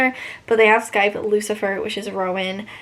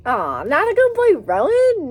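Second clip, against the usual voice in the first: mock scolding; 7 semitones higher, 6 dB louder than usual. Real, not acted. Reacting to the book character.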